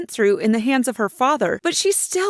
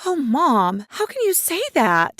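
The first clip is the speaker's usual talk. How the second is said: put-on high, pleading hurt girl; tearful daughter; 5 semitones higher than usual. Teen daughter hurt by her mother, high and tearful. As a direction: voice her through tears. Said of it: "With tears in her eyes".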